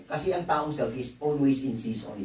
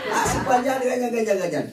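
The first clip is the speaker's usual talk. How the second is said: mock finger-pointing; 11 semitones higher, 4 dB louder than usual. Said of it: "Baka ituro nyo na naman".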